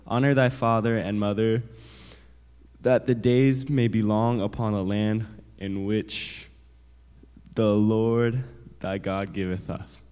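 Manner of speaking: loud, slow, solemn Bible reading; scripture reading. Acted. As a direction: read the verse out big and slowly.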